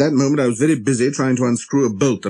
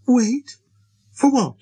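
put-on high, questioning child-prince voice; little prince, puzzled; 13 semitones higher, slower than usual. A narrator's reading. Little prince questioning the pilot about waiting, puzzled.

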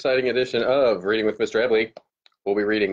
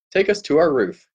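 called out; 5 semitones higher than usual. Acted. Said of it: "Vic called".

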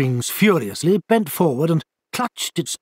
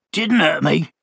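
bitter; 2 semitones higher than usual. Acted. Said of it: "said the owl bitterly".

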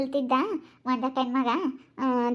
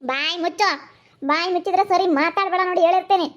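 raised-pitch, irritated warning; cross scolding; 4 semitones higher than usual. Acted. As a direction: shut the child up sternly. Carer orders crying child silent.

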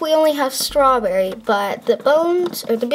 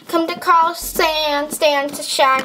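calling out; 4 semitones higher, much slower than usual. Acted.

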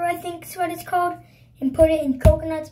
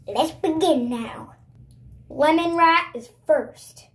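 talking around a marker in teeth; marker in mouth; slower than usual. Real, not acted. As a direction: speak with a pen held in the teeth. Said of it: "I got marker in my mouth".

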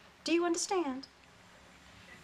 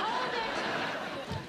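high, stretched halt order; sharp command; 11 semitones higher than usual. Acted. Mother stopping the little wiretappers, high sharp command. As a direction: call them to a halt, pitch high.

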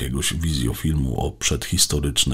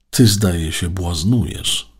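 slow, pointed accusation, slightly raised; accusing tone; 5 semitones higher, 6 dB louder, slower than usual. A narrator's reading. Robot accuses Alek of clowning, slow and accusing. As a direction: tell him off for clowning around. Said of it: "powiedział tonem oskarżycielskim".

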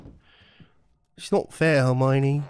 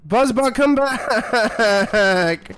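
calling out; much slower than usual. Real, not acted. Calling the bot back.

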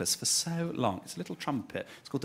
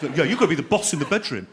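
laddish boast; 4 dB louder than usual. Retold or imitated. Johnny boasting, voiced in story.

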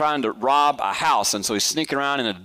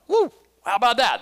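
excited woo; 10 semitones higher, faster than usual. Real, not acted. Marvels at sermon parallels.

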